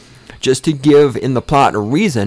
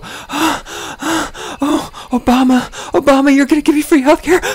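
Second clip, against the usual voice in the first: mock orgasmic moaning. Mocking Obama fans on TV, very high mock moans. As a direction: moan in mock ecstasy over a politician. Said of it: "like having orgasms".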